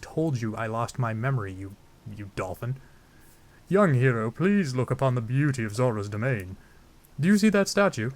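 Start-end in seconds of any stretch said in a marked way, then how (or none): 3.7-8.1 grand put-on royal voice; King Dorephan. Zora king shows the hero his domain, stately voice. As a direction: present it like a proud theatrical monarch. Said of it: "I don't know why I'm giving him that voice".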